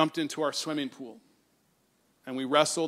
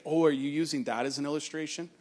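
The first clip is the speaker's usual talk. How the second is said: a quiet, light imitation of his daughter asking; underplay it, curious and hushed; soft teen question; 3 semitones lower, 6 dB quieter than usual. Daughter asks her dad about his sermon notes, softly curious. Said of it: "she's like".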